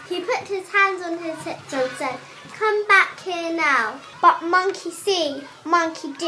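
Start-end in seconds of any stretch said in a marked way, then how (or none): 2.6-4.0 slow, louder cross command; angry order. Acted. Angry hat seller to monkeys, acted stern order. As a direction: order them back, slowly and firmly.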